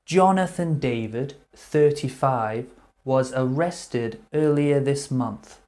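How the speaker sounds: crisp newsreader voice; news read. Acted. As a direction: read it like a headline bulletin. Reads a news extract.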